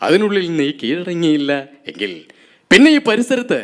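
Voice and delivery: lightly voiced cop warning a bandit; measured police officer threat, a hint of Lalu Alex; Lalu Alex impression. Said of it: "ഏ, Lalu Alex". (Lalu അലക്സിന്റെ ശബ്ദത്തിൽ police താക്കീത്)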